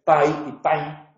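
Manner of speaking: "pai" and "pan" said as Portuguese words, "pan" with a nasal diphthong; Portuguese "pai" against nasal "pan"; Portuguese pronunciation. Shown as a demonstration. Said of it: "en, en portugués".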